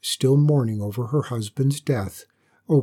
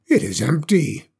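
exclaiming. Acted. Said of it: "exclaimed the dragon".

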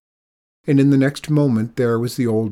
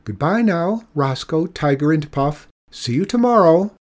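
higher, louder mock old woman voice; imitating Mikola; 6 semitones higher, 5 dB louder than usual. Old man teasing the woman by copying her, higher mock voice. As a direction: mimic her high voice teasingly. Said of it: "imitating Mikola's own high voice".

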